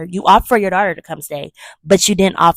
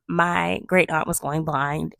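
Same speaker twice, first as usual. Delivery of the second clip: ordinary talk, nothing marked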